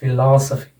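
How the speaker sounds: "फिलॉसफी" as fi-LOS-uh-fee; stress on LO. Shown as a demonstration. Teacher says where word stress falls, stress on LO. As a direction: lean on "लॉ" in "फिलॉसफी". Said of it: "word stress लग जाएगा".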